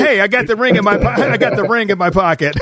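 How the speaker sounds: joking about the ring. Pretend. Joking he has ring ready.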